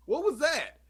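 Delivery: squeaky hiccup-broken voice; talking through hiccups. Real, not acted. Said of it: "I'm not gonna hiccup again".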